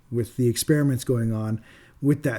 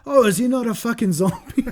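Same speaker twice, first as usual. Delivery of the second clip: high put-on character voice; mock-bewildered, pitched well above usual; hammed-up comic questioning; 8 semitones higher than usual. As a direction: squeal the question up high for laughs. Acts comic relief's horrified question.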